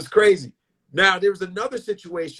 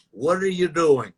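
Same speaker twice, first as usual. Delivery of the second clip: slow, drawn-out impression of a disapproving elder; lightly put-on, stretched-out scolding; Bill Cosby. Veteran comic catches his imitator, lightly mimicked disapproval. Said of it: "he was like this".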